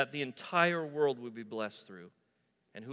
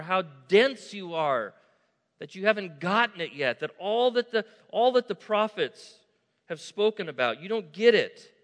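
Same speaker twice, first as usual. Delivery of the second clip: emphatic scolding, raised pitch, key words punched louder; Jesus's exasperated rebuke; 4 semitones higher, 5 dB louder than usual. Acted. Jesus rebuking two slow disciples.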